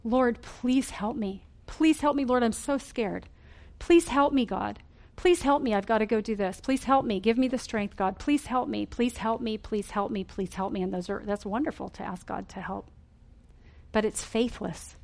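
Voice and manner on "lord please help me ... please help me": anxious, repetitive begging, rising on please; desperate pleading prayer. Shown as a demonstration. Preacher demonstrating a faithless prayer, anxious repetitive pleading. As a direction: plead over and over like a frightened child. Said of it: "they look kinda like this".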